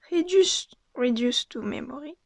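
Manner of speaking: English card name in a real French accent. Real, not acted. Card opener apologising for the accent, French-accented English. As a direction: read English with your own French accent. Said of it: "Excusez mon accent anglais".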